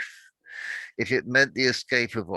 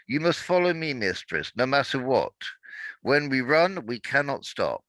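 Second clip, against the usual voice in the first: raised, pressing voice of a devoted slave; urgent loyal servant; 4 semitones higher than usual. Acted. Awa urging her mistress to flee, urgent and firm. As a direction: push her to follow, firmly and urgently.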